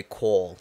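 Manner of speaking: "Cole" as a botched Texan call; imitated fake accent. Co-host naming actor's big tell, imitating "Cole". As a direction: say "Cole" for call, falling at the end. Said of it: "his big tell was he would say".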